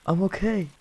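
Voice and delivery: small high-pitched voice; high voice, putting on okay; high reassurance. Pretend. Reassures after crashing in game.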